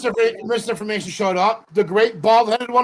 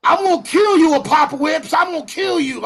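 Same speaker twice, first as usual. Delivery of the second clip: high mock shout of a threat; hammed-up furious threat; imitating mad Tony; 6 semitones higher than usual. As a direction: act out an enraged threat, raised pitch. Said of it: "He was so mad".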